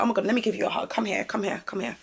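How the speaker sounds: mock comforting. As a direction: coax someone in for a hug, quietly. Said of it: "I can look at you and be like".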